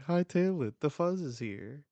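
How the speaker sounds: high, loud cry to scram; panicked yell. Acted. Everyone fleeing from Garp.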